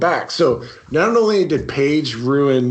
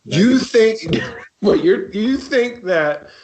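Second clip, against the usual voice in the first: incredulous; 7 semitones higher, slower than usual. Real, not acted. Incredulous reaction.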